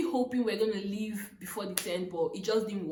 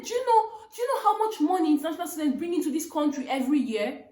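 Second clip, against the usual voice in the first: laughing through it; 6 semitones higher, 5 dB louder, faster than usual. Retold or imitated. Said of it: "It was just me all laughing".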